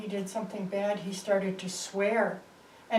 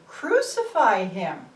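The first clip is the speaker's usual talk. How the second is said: loud, slow demand; crowd shout; 6 dB louder, slower than usual. Acted. The crowd shouts at Pilate, slow and loud. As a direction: bellow it like an angry mob. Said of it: "the people shouted louder and louder".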